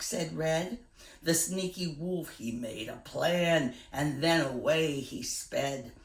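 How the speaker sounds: put-on gentle, rhythmic read-aloud for kids; reading a poem to children. Teacher reading a rhyming poem to boys and girls, storytelling voice. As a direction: lilt the rhyme for a class.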